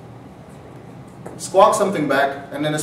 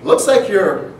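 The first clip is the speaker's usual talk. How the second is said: threatening seagull; 5 semitones higher, slower than usual. Acted. Seagull tells the driver he has no backup, raised smug taunt. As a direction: deliver it as a smug bird, pausing before the punchline. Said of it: "what the bird looked at me and told me".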